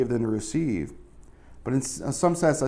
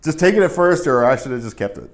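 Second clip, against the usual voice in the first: mock exasperated outburst; 2 semitones higher, 9 dB louder than usual. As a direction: blurt it out in fake frustration. Acted frustration.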